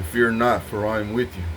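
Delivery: imitating a mighty divine voice; mighty voice of God. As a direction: proclaim it like a deity. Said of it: "In a mighty voice. Bold".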